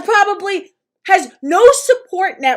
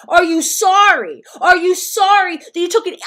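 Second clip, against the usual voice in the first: retold demand; 4 dB louder than usual. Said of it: "Yeah, I asked".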